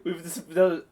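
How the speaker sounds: ordinary talk, nothing marked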